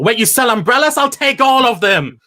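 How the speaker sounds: hammed-up delight at a bargain; mock excited customer. Acted mourner finds umbrellas.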